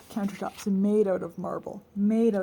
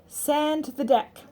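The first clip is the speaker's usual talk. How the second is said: slow, deliberate reading; reading a note aloud; 6 semitones higher, much slower than usual. A narrator's reading. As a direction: read each word off the list. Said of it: "She read out loud".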